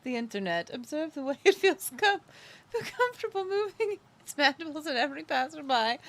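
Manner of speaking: lightly hushed wildlife narrator; a hint of a nature film narrator; nature documentary. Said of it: "That's David Attenborough".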